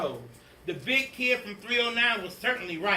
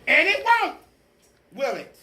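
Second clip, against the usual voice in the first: much higher, louder threat; menacing witch teacher; 10 semitones higher, 10 dB louder than usual. Acted. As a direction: warn the class.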